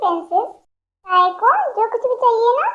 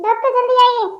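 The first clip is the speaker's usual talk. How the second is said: higher and louder, calling down the hall; urgent call; 4 semitones higher, 4 dB louder than usual. Acted. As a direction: shout for the doctor to hurry.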